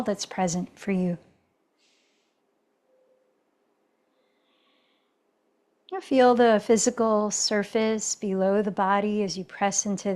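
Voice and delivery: calm, even yoga-teacher guidance with long pauses; settled meditation-leader voice; guided meditation. Real, not acted. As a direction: guide them inward, unhurried, leaving space between phrases. Leads a meditative check-in.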